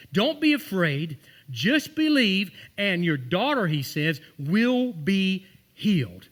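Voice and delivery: drawn out and reassuring; slow and emphatic, meaning every word; slow, emphatic reassurance. Retold or imitated. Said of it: "He literally said that".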